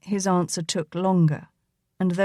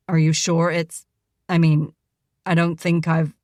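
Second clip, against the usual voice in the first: half-angry; 2 semitones lower, 3 dB louder than usual. A narrator's reading. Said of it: "he cleared his throat in a half-angry manner".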